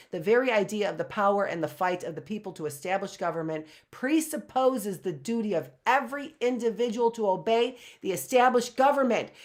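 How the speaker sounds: rushed first read-through; fast, flat first pass over the passage; quick first read. Shown as a demonstration. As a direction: skim the line fast before reading it properly. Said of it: "rereads same passage".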